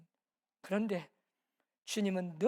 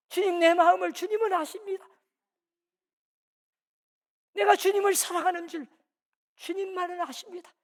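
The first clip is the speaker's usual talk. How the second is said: pleading confession; 3 semitones higher, 6 dB louder than usual. Retold or imitated. Peter pleading to Jesus that he still loves him, earnest plea. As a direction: beg him to see your heart.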